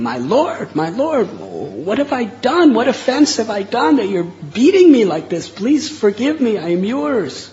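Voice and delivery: high, loud pleading cry under blows; pained, pleading scream to the Lord. Retold or imitated. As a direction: beg for mercy while being struck. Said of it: "was screaming out, in pain".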